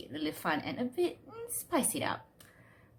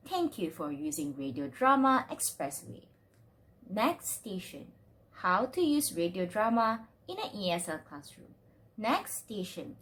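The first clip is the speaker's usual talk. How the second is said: lower, measured station announcement voice; mock train announcer; 3 semitones lower than usual. Presenter plays a train announcer welcoming passengers, lower announcer voice. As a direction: lightly announce the next stop like a train conductor.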